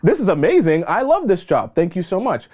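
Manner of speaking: overflow with gratitude for a muffin; excited thanks. Acted. New hire thanking her coworker for the muffin, gushing excitement. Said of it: "So you're excited".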